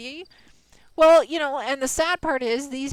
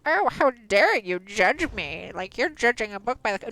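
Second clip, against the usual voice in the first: mock guilt-trip. Streamer mocking a scammer to chat, mild wounded guilt trip. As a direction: play the offended victim, lightly. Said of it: "they try to guilt trip you".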